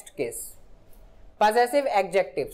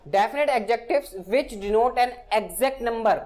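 very slow, word-by-word definition read; slow dictation; much slower than usual. Shown as a demonstration. Teacher dictating a grammar definition to students, very slow. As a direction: spell it out slowly for students to copy.

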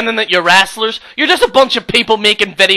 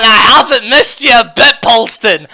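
laughing. Real, not acted. Sarcastic jab while laughing.

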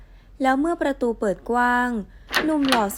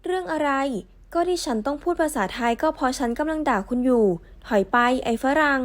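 careless, brushing-off retort; dismissive. Acted. Woman brushing off the foreigner she's cursing, dismissive. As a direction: wave him off like he doesn't matter. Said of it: "พูดขึ้นด้วยภาษาไทยอีกครั้งอย่างไม่สนใจ".

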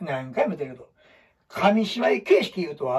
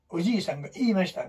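quick robotic read-through; mock monotone reading; 4 dB quieter, faster than usual. Shown as a demonstration. Teacher imitating students' stiff reading, robotic monotone. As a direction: read it like a machine. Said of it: "棒読みで".

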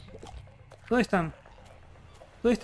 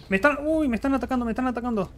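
higher-pitched startled warning; alarmed; 4 semitones higher, faster than usual. Real, not acted. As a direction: react to a sudden attack. Attacked by enemies in game.

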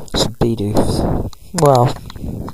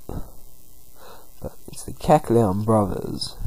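whispering; 7 dB quieter, much slower than usual. Real, not acted. Quiet aside while playing.

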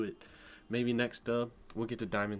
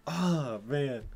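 much higher, louder cry of letdown; loud groan of disappointment; 9 semitones higher, 7 dB louder, much slower than usual. Real, not acted. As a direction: wail that the rank was missed. Learning the rank-up failed.

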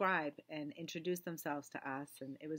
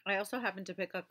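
talking around a sucking candy; candy in the mouth while speaking; mouth full; 3 semitones higher than usual. Real, not acted. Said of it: "I have sucking candy in my mouth".

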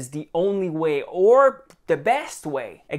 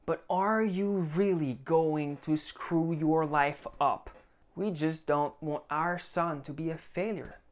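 passive-aggressive parent; 3 dB quieter than usual. Retold or imitated. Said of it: "It might be passive aggression".

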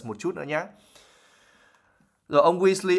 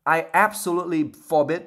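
stern forbidding; 4 semitones higher, 4 dB louder than usual. Acted. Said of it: "her eyes overbright".

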